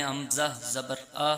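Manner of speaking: آ sung out slowly with the mouth wide open; open zabar sound. Shown as a demonstration. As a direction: open the mouth and let آ ring in a slow chant. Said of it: "تو منہ خود بخود کھل جاتا ہے". (آ کو منہ کھول کر کھینچ کر پڑھیں)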